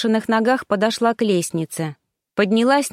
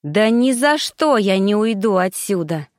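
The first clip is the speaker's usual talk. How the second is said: icy voice. Acted. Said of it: "ледяным голосом".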